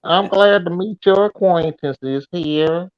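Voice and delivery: put-on Blue Ridge hillbilly twang; redneck accent. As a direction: play a Virginia redneck with a Southern drawl. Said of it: "just a redneck from the Blue Ridge Mountains".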